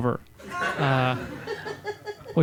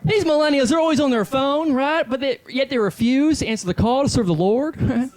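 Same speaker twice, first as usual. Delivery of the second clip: hack club comic; 10 semitones higher than usual. Acted. Comic in character working the crowd, brash high shouting voice.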